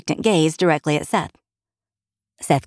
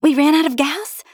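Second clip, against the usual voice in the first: high, incredulous question; alarmed exclamation; 11 semitones higher, 3 dB louder than usual. A narrator's reading. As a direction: react in startled disbelief. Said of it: "Jenny exclaimed".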